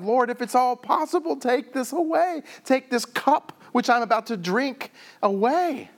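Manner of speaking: acted desperate praying; pleading prayer. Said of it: "he's praying to God".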